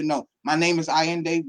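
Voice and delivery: proud steady introduction of Allende; confident. Shown as a demonstration. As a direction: say Allende firmly and clearly.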